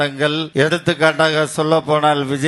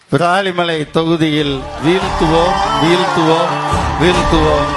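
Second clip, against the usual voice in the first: thunderous political oratory. Real, not acted. Rally speaker chanting a vow.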